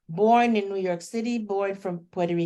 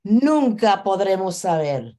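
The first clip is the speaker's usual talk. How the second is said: projected Spanish poetry reading, louder; poem recital; 6 dB louder than usual. Acted. Guest reader answers the poet in Spanish, projected recital. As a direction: declaim the line in Spanish.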